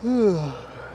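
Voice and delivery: long tired yawn; a big sleepy yawn. Real, not acted. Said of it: "Sorry I keep yawning".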